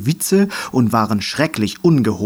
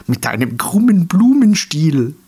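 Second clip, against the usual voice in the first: higher, cheeky retort; gleeful comeback; 6 semitones higher, 4 dB louder than usual. A narrator's reading. Grumbler teases a comrade back, gleefully. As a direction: fire back with delight. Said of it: "schoss der Stänkerer vergnügt zurück".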